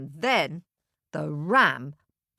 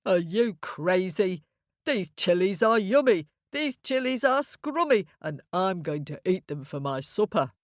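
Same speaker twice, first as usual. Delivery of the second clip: lightly voiced cheeky ram. Ram refuses to leave the boy's chilies, lightly mocking. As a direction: play a scoffing ram, lightly.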